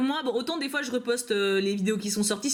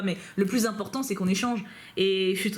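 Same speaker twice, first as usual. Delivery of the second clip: usual speaking voice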